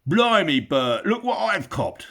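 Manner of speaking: loud, high rough troll shout; gruff troll. Acted. Troll William calls to Bert, loud rough shout. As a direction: bellow like a crude Cockney troll.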